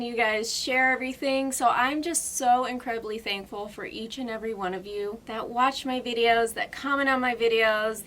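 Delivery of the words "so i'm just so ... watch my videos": ordinary talk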